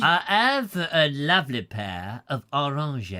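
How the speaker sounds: "orange" in French style. Shown as a demonstration. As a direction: say "orange" the French way inside the sentence. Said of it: "the way Frenchmen say oranges".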